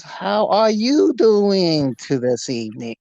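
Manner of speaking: put-on slow, drawn-out German accent. German stranger greeting a young man on the street, German accent. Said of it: "German accent".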